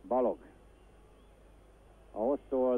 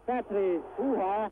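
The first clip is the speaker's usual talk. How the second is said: surprised; 7 semitones higher than usual. Real, not acted. Keeper save.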